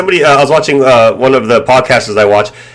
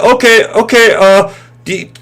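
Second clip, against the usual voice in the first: much higher, sugary caller voice; fake-sympathetic scammer; 9 semitones higher than usual. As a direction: pretend concern while fishing for the card. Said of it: "and like".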